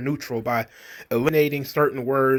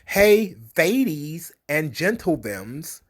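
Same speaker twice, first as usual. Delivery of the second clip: hammed-up chirpy classroom hello; mock cheerful greeting; slower than usual. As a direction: sing it out like an overeager teacher. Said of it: "some of the things that were suggested".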